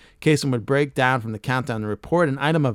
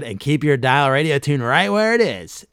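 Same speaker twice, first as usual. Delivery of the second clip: louder, smooth mock host outro; lightly voiced DJ closing; radio sign-off; 5 dB louder than usual. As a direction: wrap the show like a countdown host. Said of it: "He'd usually add".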